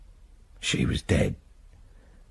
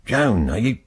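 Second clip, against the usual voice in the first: calling through the letterbox; 5 dB louder than usual. Retold or imitated. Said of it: "and shouted".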